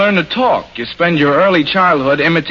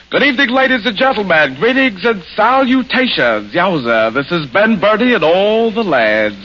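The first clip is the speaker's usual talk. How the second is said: lightly voiced bandleader patter; breezy old maestro patter; a famous bandleader. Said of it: "If Charles Boyer were to catch a cold and drop his French accent".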